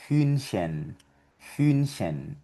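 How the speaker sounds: "Hühnchen" with audible H, long ü; H with U umlaut. Shown as a demonstration. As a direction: model "Hühnchen" word alone, rounded ü and soft ch. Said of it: "y esto se pronuncia".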